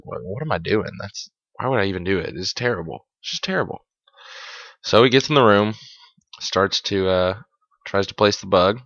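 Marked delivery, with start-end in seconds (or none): 0.0-3.9 soft, embarrassed aside to oneself; muttered self-doubt. Acted. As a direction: mutter it under your breath, softly. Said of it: "and he's like".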